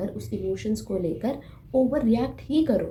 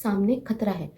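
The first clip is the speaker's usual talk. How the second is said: mock-urgent warning, rattled off in repeats; lightly acted danger alert; urgent inner alarm; 2 semitones higher than usual. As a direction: play a jumpy guard sounding the alarm. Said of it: "आपको signal देता है कि".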